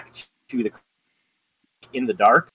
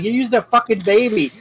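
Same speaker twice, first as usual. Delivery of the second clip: half-acted disbelieving shriek, much higher; playing Blue Jay, pitched way up in horror; retold panicked outburst; 10 semitones higher, 3 dB louder than usual. Blue Jay accusing Rob of faking, in a high mock shriek. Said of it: "She's like".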